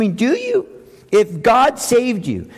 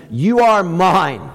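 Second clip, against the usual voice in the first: tender claim; slower than usual. Retold or imitated. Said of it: "And Jesus says to him".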